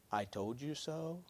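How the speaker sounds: soft, slow, smug I told you so; mock smug. Someone tempted to gloat at a friend, soft and smug. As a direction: murmur it like a knowing teacher. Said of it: "Jesus is saying to them".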